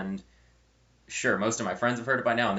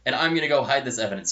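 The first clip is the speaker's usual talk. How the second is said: imitated annoyed insistence, somewhat louder; pissed off, embarrassed; 3 semitones higher, 5 dB louder than usual. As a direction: lay down terms in mock indignation. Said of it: "he's pissed off. He's slightly embarrassed".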